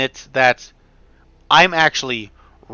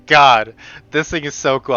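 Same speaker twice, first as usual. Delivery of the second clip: excited; 5 dB louder than usual. Real, not acted. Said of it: "I'm sorry, I'm so".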